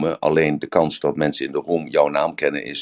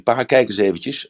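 higher-pitched quote of a son; imitating eager son; 7 semitones higher than usual. Son urging his dad to watch a video, imitated higher. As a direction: call Dad over to look, lightly imitated. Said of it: "En toen zegt hij".

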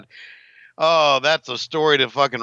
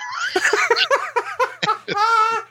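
high laugh. Real, not acted. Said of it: "Do it again".

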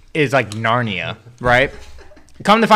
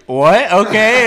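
baffled; 7 semitones higher, 6 dB louder, slower than usual. Retold or imitated. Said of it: "I was like".

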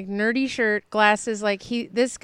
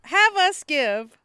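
higher, indignant disbelief cracking into a laugh-cry; outraged; 6 semitones higher, slower than usual. Real, not acted. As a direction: build the outrage at the absurd ask. Outraged retelling to friend.

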